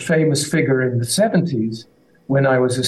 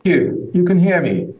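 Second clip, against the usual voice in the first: echoing tunnel; 5 semitones higher, 3 dB louder than usual. Real, not acted. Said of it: "you do sound like you're in a tunnel".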